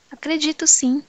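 a hurried, eager yes, I believe you; eager insistence. Acted. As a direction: rush to convince him. Pressed to affirm belief.

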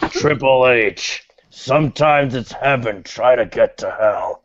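ominous wrestler. Acted. Wrestler threatening Triple H, low and ominous. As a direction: intone it low with heavy pauses. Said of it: "I got one that might scare".

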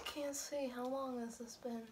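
hushed unvoiced whisper. Real, not acted. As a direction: breathe the words, no voice. Whispering during the challenge.

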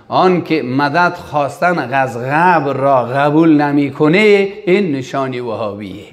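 lightly imitated Iranian Persian accent; slow quoted answer in slight Iranian accent. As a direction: mimic an Iranian speaker, drawing out the endings. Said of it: "لهجه ایرانی است".

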